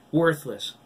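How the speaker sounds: loud, high jeer; repeated taunt. A narrator's reading. Girl repeats the jeer, loud and high. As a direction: keep hammering the insult. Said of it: "Diana repeated".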